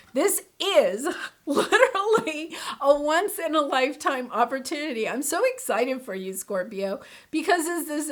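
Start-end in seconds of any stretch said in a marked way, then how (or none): 0.1-5.1 laughing through it. Pretend. Quoting client, laughing.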